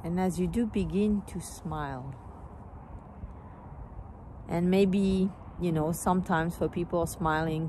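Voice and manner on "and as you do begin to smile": calm meditation guide, long pauses between phrases; guided meditation. Real, not acted. Teacher guiding listeners into their hearts, calm meditation voice. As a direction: gently lead them inward, unhurried.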